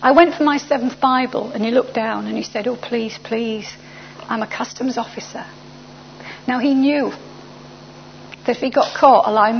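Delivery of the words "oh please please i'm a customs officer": soft, anxious begging; understated retold pleading; hushed plea. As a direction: plead quietly, not to be overheard. Officer nervously pleads with smuggler.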